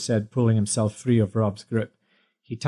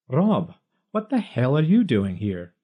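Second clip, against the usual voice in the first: shocked; 2 semitones higher than usual. A narrator's reading. Shocked at intruder.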